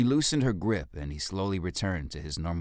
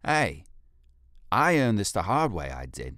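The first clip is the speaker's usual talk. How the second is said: a lightly voiced ape, proud and louder; boastful ape guard; 4 semitones higher, 6 dB louder than usual. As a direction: brag about the mask, chest out. Fekis boasts of his mask.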